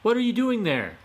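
high, loud cheeky question; sly fox voice. Acted. Fox prodding the old man, high and cheeky.

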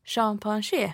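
champagne with a fancy French sound, ending -pan-je; posh pronunciation. Shown as a demonstration. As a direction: say champagne the refined way. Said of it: "om man vill säga det lite finare".

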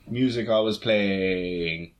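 drawn out slowly like a song title. Shown as a demonstration. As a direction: stretch each word slowly. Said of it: "as a little homage to the, to the song I recorded".

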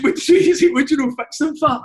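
high, loud words through laughter; laughing. Real, not acted. Player laughing while retelling his prank. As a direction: crack up while you get it out.

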